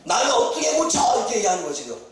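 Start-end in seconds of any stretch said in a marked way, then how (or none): 0.0-1.0 acted king's reply. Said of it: "하는 말이 뭐예요?".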